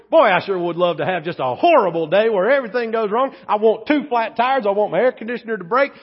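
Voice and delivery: hammed-up fake pious request; sarcastic mock prayer. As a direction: pray for misery with a mocking grin. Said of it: "Do I want to wake up and say".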